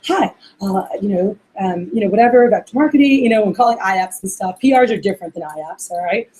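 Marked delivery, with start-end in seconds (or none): 0.1-3.2 mock stiff phone greeting, pitched low; robotic, professional. Trainer mimicking a trainee's robotic sales call, stiffly professional. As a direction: imitate an overly professional caller. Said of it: "just very, very professional".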